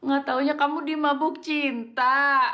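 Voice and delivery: laughing while teasing. Acted. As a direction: tease through a laugh. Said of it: "Kok malah ketawa sih?".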